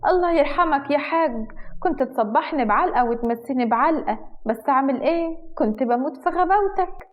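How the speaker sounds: put-on disapproving old woman. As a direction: scold the boy with a lip-smacking sigh. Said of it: "مصمصت شفايفها واتكلمت باستنكار".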